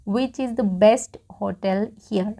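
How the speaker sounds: a slow, breathy whisper of the sentence. Shown as a demonstration. Teacher whispers the model sentence to students. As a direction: whisper the question slowly, every word clear.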